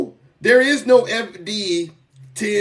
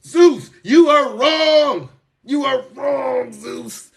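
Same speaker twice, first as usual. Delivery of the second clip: higher, slow, drawn-out mock shout; hammed-up yelling critics; 5 semitones higher, slower than usual. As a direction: imitate critics yelling at him. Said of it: "And they yelled at me".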